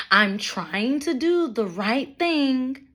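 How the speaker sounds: slow, mock-earnest quote; mocking Brenda's line. Mocking the mother's voicemail, slow and mock-earnest. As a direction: drag it out like her sanctimonious voicemail. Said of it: "she kept emphasizing in her voicemails".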